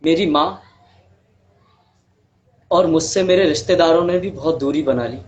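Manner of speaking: measured storytelling with long pauses; understated monologue, pausing heavily between sentences; dramatic monologue. Acted. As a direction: recount a hard life story in earnest, phrase by phrase.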